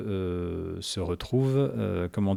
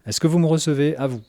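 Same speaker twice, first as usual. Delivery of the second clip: radio transmission; 4 semitones higher, 4 dB louder than usual. Acted. Player answers over the radio.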